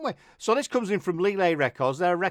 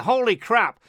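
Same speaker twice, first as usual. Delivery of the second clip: put-on failed American accent; 7 semitones higher, 6 dB louder, slower than usual. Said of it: "I can't do an American accent".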